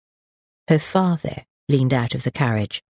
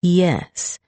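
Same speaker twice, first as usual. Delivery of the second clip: acid; 5 semitones higher than usual. Acted. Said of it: "she answered acidly".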